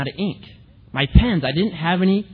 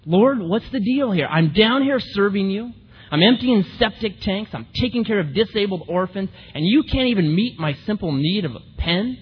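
retold angry prayer; 4 semitones higher than usual. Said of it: "I got angry".

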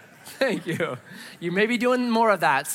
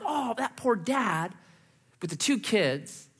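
pitying; 2 semitones higher, 5 dB quieter, slower than usual. Retold or imitated. Pitying man with hungry kids.

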